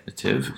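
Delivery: "ative" said like "uh-tiv"; pronunciation demo. Shown as a demonstration. Lecturer showing how the ending sounds, "ative" as "uh-tiv". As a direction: sound out "ative" with a reduced first vowel. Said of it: "that's what it sounds like when you say it".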